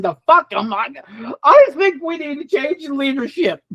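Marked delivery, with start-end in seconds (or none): 1.4-3.6 creepy alien voice. Retold or imitated. Alien voice continued.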